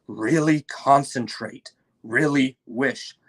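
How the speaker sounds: slow, intent coaxing; slow urging. Acted. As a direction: draw it out, urging her to wish. Lion urges Lucy.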